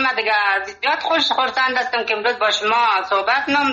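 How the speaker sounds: lightly put-on Hazaragi accent, unhurried; گویش هزارگی ملایم; Hazaragi dialect. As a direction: chat to the host in easygoing Hazaragi. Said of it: "من به لهجهٔ هزارگی همراه تو توره بگم".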